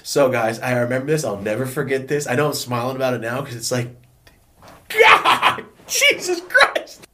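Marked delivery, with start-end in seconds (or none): 4.9-7.1 high, loud cry of disbelief; exasperated shout. Acted. Storyteller laughing off a painful memory, exasperated shout. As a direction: yell it out in mock agony.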